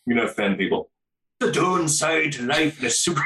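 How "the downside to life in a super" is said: put-on failed Scottish accent. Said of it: "I can't even do it".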